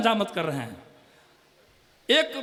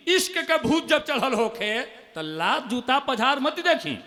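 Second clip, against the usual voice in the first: poem line; slower than usual. Acted. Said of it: "मुक्तक".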